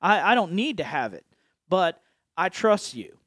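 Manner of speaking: acted prayer. Acts out trusting prayer to God.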